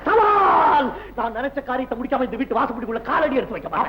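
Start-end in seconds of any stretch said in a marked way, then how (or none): 0.0-0.9 சவால் with a long held middle vowel, falling at the end; drawn-out challenge. Acted. Throws down a challenge.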